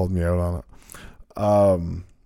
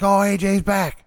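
higher, louder mock surprise; 11 semitones higher, 4 dB louder than usual. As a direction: chirp it like someone surprised. Imitating surprised crowd backstage.

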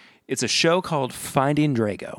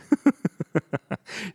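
light chuckle in a higher pitch; amused chuckle; 7 semitones higher than usual. Real, not acted. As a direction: chuckle at a cheeky jab. Amused by the review just read.

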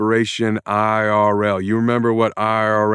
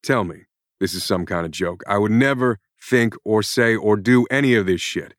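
higher and louder, shouting curses at the author; furious rant; 4 semitones higher, 6 dB louder than usual. Acted. Jack Irons yells at the writer who created him, furious. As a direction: let rip at her like a fed-up hero. Character breaks frame, rants at author.

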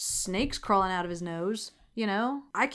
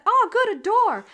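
much higher, bright relief; relieved; 11 semitones higher, 6 dB louder than usual. Retold or imitated. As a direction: act overjoyed to find a way out. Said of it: "she's like".

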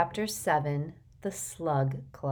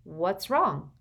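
mildly worried question; anxious; 3 semitones higher, 4 dB louder than usual. A narrator's reading. Hermione to Harry after he freezes, mildly anxious. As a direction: ask with a touch of concern. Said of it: "in an anxious voice".

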